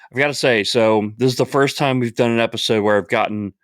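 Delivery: talking through the hiccups; hiccuping between words. Real, not acted. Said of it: "I've got the hiccups really bad today".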